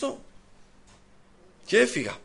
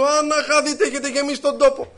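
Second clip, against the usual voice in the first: high, raised retold yell; shouting curse; 6 semitones higher than usual. Old man yelling in the bakery, mock shout. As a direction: curse them all across the shop. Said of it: "άρχισε να φωνάζει".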